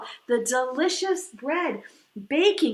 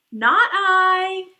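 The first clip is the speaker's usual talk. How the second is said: a loud, blunt "no" from the duck; loud refusal; 4 semitones higher, 8 dB louder than usual. Acted. Duck refusing to help the little red hen, loud blunt refusal. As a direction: bark it out, flat refusal.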